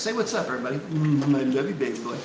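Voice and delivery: low, soft cooing; pet talk. Real, not acted. Owner has pet greet the viewers, pet talk. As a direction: coo quietly to a pet.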